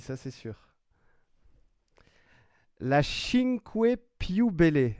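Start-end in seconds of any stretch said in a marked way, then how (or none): 2.8-4.9 Cinque Più Belle in a hammed-up Italian accent, higher and louder. Joking back to a viewer about David's Italian accent, in a hammed-up Italian accent. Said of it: "c'est en phonétique".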